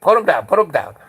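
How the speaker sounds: loud, high, repeated command; imitating an officer calling out; urgent shouted order. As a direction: call it out to armed men. Chief repeats order to lower guns.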